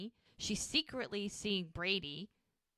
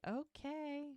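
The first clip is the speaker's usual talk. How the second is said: amused "Okay" with a higher, chuckling lilt; 8 semitones higher, 7 dB quieter than usual. Retold or imitated. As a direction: let a chuckle slip under the word. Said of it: "chuckles under her breath".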